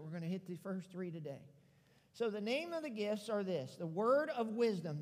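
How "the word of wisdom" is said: "word" leaned on in "word of wisdom"; stress on word. Shown as a demonstration. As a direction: put the weight on "word", not "wisdom". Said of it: "The emphasis is on word".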